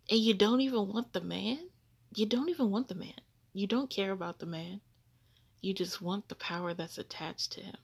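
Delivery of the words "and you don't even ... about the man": louder, higher exasperated call-out; indignant. Real, not acted. Calling out women who claim Jesus, raised exasperated voice. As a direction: call them out, fed up. Scolding the false brides.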